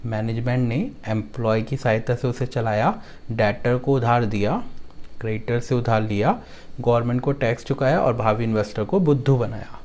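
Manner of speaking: line-by-line memory chant, each line ending on a lift; song-like mnemonic recitation. Shown as a demonstration. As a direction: recite it rhythmically for students to repeat. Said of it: "एक गाने की तरह बनाया हमने". (गाने की तरह याद कराने वाला पाठ)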